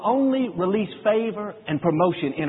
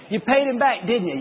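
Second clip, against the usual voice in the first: much higher pointed question; God's inner voice; 6 semitones higher than usual. Retold or imitated. God's voice confronting the father about revenge, pointed. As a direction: needle him knowingly. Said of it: "he heard a voice right down in here".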